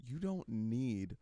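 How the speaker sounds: mock heartfelt moral of the episode; lightly voiced wise mother, unhurried; consoling mom. Forgiving mom gives the sitcom moral.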